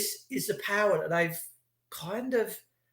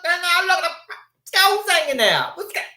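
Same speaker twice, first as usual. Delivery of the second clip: shocked onlookers; 12 semitones higher, 4 dB louder than usual. Retold or imitated. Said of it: "And everyone's going".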